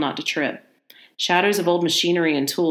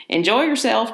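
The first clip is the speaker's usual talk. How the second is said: cackling; 6 semitones higher, 3 dB louder than usual. Acted. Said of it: "cackled the old man".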